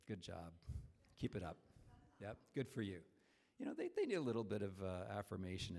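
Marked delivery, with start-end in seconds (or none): 0.1-3.0 much softer, lower murmured encouragement; quiet aside. Retold or imitated. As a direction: lean in and murmur approval to a stranger. Quietly praising parent in checkout line.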